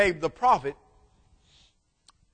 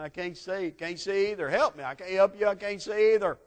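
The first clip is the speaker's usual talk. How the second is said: mock-panicked soldiers, growing louder; blinded soldiers crying; 4 semitones higher, 3 dB louder than usual. Blinded Syrian soldiers crying out to each other, mock panic. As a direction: play the groping blind soldiers, half-comic. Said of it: "They're crying".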